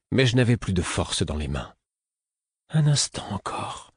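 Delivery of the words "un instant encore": higher, slow pleading. A narrator's reading. The fool pleading with Fitz, higher and slow. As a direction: plead urgently, voice lifting. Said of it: "fit-il, suppliant".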